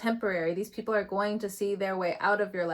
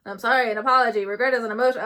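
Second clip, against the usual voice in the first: mocking loud apology; 2 semitones higher, 8 dB louder, much faster than usual.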